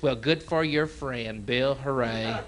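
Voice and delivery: slow flat mock cheer; deadpan hooray; sarcastic dad. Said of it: "he's just".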